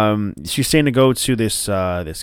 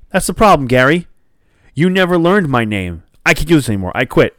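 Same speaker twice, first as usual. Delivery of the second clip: raised, higher-pitched fed-up protest; acted indignation; 4 semitones higher, 4 dB louder than usual. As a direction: act out an exasperated worker quitting. Acted fed-up employee quitting.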